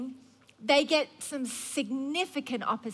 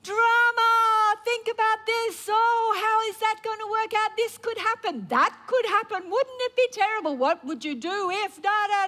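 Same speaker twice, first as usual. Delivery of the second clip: sing-song lure demanding attention; voice of drama; 8 semitones higher than usual. Retold or imitated. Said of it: "the enemy comes with thoughts".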